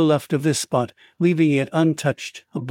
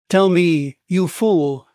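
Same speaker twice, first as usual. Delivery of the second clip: raised, forceful command; angry demand; 3 semitones higher, slower than usual. Acted. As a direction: lean on him, impatient and rough. Narrator shakes drunk man, glaring wildly.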